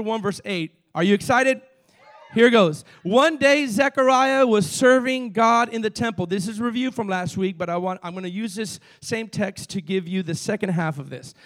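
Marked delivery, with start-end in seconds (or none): 0.9-6.3 fired-up preaching. Acted. Preacher fires up the congregation.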